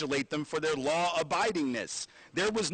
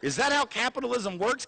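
laughing disbelief; 7 semitones higher than usual. Real, not acted. Laughing rhetorical question.

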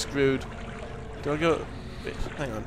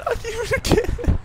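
much higher, squeaky with fear; frightened squeal. Real, not acted. Player hears the creature again, high frightened squeal. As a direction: squeal it out, scared stiff.

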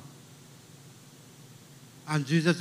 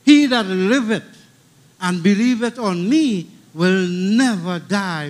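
declaimed verse; 7 dB louder than usual. Shown as a demonstration. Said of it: "Praise the name of the Lord".

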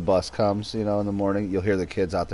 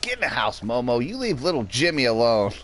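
calling the dog; 7 semitones higher than usual. Retold or imitated. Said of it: "I'm like".

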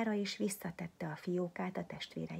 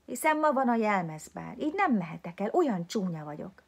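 put-on girl's lament; 3 semitones higher, 7 dB louder than usual. A narrator's reading. Sad girl misses the ball.

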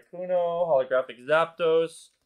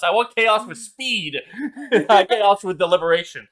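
laughing mock rant; 4 semitones higher, 7 dB louder than usual. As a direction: demand speed through laughter. Mock rant at chat about chaos.

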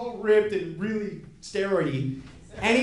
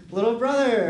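affectionate greeting; 3 semitones higher than usual. Retold or imitated. Brother's sweet greeting on the phone.

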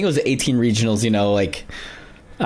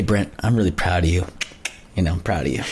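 mock patronizing mentor; 6 semitones lower, 3 dB quieter than usual. Getting back at his mentor, lower softer mock praise. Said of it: "It's like".

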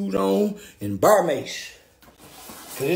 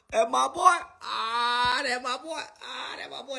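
tearful joy; 4 semitones higher, 4 dB quieter, slower than usual. Real, not acted. Fading joyful sobbing.

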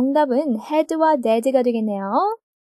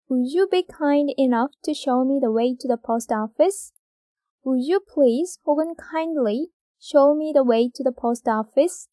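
very slow, word by word read; slow dictation; much slower than usual. Shown as a demonstration. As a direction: dictate slowly for the class. (받아쓰기처럼 아주 천천히)

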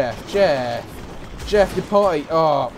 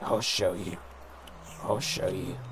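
low threat; 8 semitones lower, 11 dB quieter, slower than usual. Pretend. Goat threatens Jeff.

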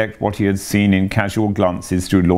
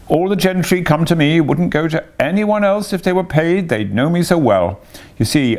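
breezy, lightly raised boast; airy; 7 semitones higher than usual. A narrator's reading. Toad brags to the barge woman, airy. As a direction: toss it off airily. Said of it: "said Toad airily".

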